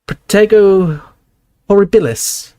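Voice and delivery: high, tiny voice chanting a spell; squeaky Flitwick incantation. Acted. Flitwick casting a protective spell, high and squeaky. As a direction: cast it like a little wizard, up high.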